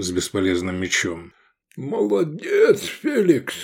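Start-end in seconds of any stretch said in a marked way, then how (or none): 1.8-3.5 high, slow delighted praise; admiring cheer. A narrator's reading. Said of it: "восхитился Гаар".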